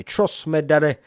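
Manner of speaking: sing-song "daddy" tease; Shane Gill catchphrase. Retold or imitated. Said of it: "I got that from Shane Gill".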